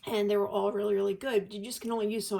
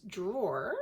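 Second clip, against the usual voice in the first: New York accent on drawer. Real, not acted. Pointing out the box's place, New York accent. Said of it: "that's my New York accent".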